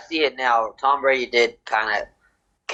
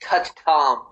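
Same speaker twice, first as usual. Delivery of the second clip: mock outraged fan; 5 semitones higher than usual.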